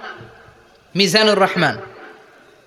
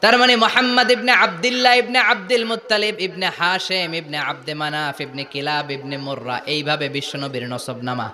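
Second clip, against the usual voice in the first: intoned sermon; 3 semitones lower than usual. Acted. Preacher tracing the Prophet's lineage for the crowd, intoned sermon. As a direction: recite the lineage in one sing-song descending line.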